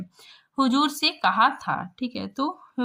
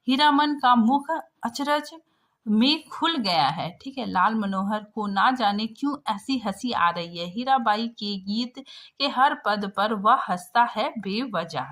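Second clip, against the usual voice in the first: reading the story aloud to the class, steady and clear. A narrator's reading. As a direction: read it like a textbook passage. Reads the story text aloud. (कहानी पाठ)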